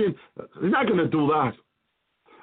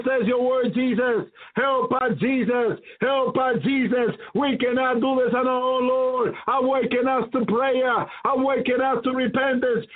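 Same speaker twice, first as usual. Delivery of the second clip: earnest, pleading prayer voice; fervent prayer. Acted. Preacher praying for the congregation, fervent pleading prayer. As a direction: cry out to the Lord for help.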